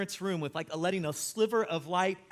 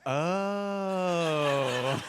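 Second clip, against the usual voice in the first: laughing oh. Acted. Dad caught, car revealed.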